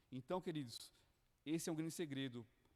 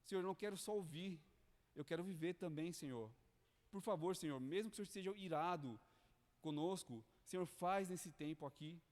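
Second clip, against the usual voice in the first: mild pleading prayer. Retold or imitated. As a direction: plead with God, lightly acted. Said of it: "começa a clamar".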